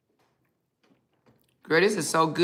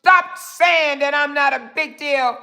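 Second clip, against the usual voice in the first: mock high voice; 7 semitones higher, slower than usual. Mock-reading a viewer's comment.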